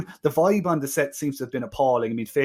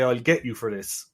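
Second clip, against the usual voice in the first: mock Deep South accent; 3 semitones lower, 3 dB quieter than usual. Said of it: "he can't say".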